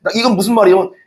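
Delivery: normal talking voice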